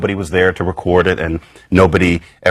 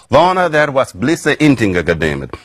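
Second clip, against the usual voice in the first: put-on reconstructed Old English accent with a Germanic lilt; half-invented Old English accent; 5 semitones higher than usual. Shown as a demonstration. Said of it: "somehow I'm just sliding into it".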